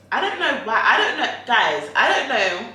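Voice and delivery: high laughing I don't know. Real, not acted. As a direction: giggle through the words. Laughing, bemused repetition.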